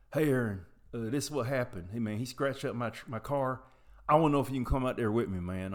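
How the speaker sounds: lightly voiced Southern buddy, rock-and-roll-crooner-like accent; imitated Southern drawl. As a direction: retell it with a touch of Southern accent. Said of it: "I'm sounding like a famous singer".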